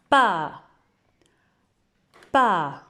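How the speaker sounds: Pa said loud and clear; teacher leading review; syllable review. Shown as a demonstration. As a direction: call out Pa twice. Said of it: "relire une dernière fois chacune des syllabes".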